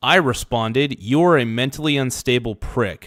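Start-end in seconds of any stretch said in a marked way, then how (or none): none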